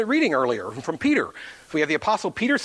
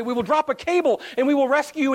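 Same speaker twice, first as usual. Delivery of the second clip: high, projected rescuer's call; bullhorn announcement; 8 semitones higher, 3 dB louder than usual. Retold or imitated. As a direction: imitate a helicopter crew calling down. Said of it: "they get on the bullhorn".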